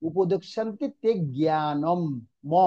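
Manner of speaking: slow line, জ্ঞানম closed on m, then ম alone; anusvara as m. Shown as a demonstration. Teacher modelling the verse for students, slow, জ্ঞানম ending in m. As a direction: draw out জ্ঞানম, isolate the final ম. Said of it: "ম উচ্চারণ হবে".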